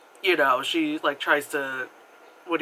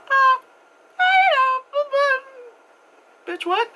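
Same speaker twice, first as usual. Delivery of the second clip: much higher, louder put-on voice with a careless brush-off; flippant mock shrug; 7 dB louder than usual. Patient brushing off her shocked therapist, mock flippant. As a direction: toss it off like it's nothing.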